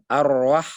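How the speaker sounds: Ar-Rah with a full, heavy ro and light ha; heavy ro thin ha. Shown as a demonstration. Teacher modelling the correct Ar-Rah. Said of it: "Tebalkan ro, ha tipiskan".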